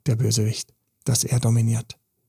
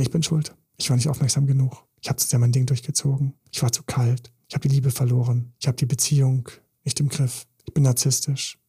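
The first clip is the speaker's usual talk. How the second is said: ordinary talk, nothing marked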